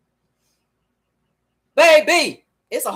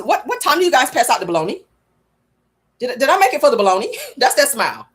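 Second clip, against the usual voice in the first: mock Marlo in jail. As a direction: beg about bologna like a hungry inmate. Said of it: "She's like".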